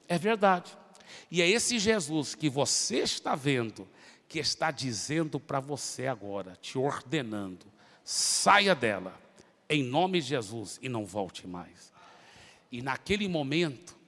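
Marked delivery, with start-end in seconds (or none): 0.1-11.9 lower, slow, firm command; commanding exorcism. Retold or imitated. Preacher casting the demon out of the woman, slow firm command. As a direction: order the spirit out with authority.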